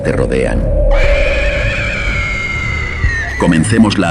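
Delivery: ominous, weighty show introduction; horror radio announcer. Acted. Host opening a three a.m. horror radionovela, ominous announcer. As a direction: intone it firmly, with dramatic pauses between phrases.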